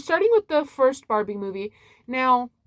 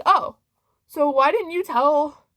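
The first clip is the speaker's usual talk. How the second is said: baffled surprise; 5 semitones higher, 4 dB louder than usual. Retold or imitated. Own reaction to secret concert.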